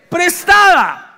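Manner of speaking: "Prestada" very slow, high and drawn out; dramatic reveal. Acted. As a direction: stretch "Prestada" as the shocking punchline. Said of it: "Y gritó diciendo".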